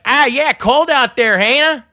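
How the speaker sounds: slow exaggerated Wilkes-Barre accent. Shown as a demonstration. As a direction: ham up a Wilkes-Barre local chatting about the cold. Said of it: "So they'll be like".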